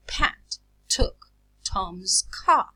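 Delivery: slow "Pat took Tom's car", word by word, with a puff after P, t and c; aspirated plosives. Shown as a demonstration. Teacher repeating for listening students, "Pat took Tom's car" slowly aspirated. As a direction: let air follow each initial plosive in "Pat took Tom's car". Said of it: "I aspirate them because they occur initially".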